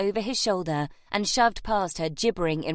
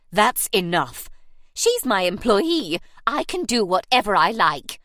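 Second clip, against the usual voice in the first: furious; 6 dB louder than usual. Acted. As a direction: shout back while held by the arm. Beasley held mid-swing, shouting.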